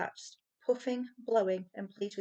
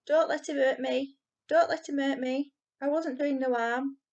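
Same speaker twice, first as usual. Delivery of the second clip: higher, louder pleading wail; pitiful wail; 6 semitones higher, 6 dB louder than usual. A narrator's reading. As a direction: plead with Barney to save you.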